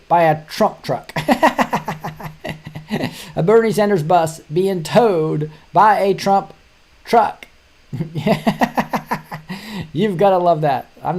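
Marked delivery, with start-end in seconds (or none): 1.2-3.3 high, breathy laugh at the video. Real, not acted. 7.9-9.9 high, breathy laugh at the video. Real, not acted.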